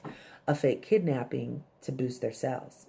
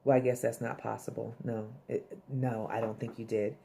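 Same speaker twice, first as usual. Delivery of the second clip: sheepish; 4 semitones lower, 6 dB quieter than usual. Retold or imitated. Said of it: "and she's like".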